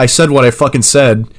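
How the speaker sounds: loud hammed-up snarl at the client; mock angry retort. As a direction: bite back like a rude boss. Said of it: "that's the vibe I'm getting".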